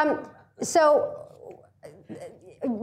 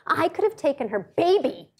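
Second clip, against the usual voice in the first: Melissa's anger. Retold or imitated. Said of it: "And she's like".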